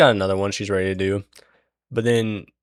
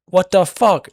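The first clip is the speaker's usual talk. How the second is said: higher, louder alarmed cry; startled outburst; 10 semitones higher, 8 dB louder than usual. Retold or imitated. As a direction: blurt it out in alarm. Seffi cuts them down.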